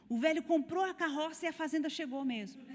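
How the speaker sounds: laughing in disbelief. Retold or imitated. Students amazed at the miracle.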